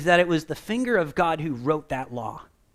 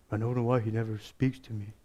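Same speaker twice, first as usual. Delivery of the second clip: frustrated whine; 6 semitones lower, 5 dB quieter than usual. Retold or imitated. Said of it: "And it's so frustrating".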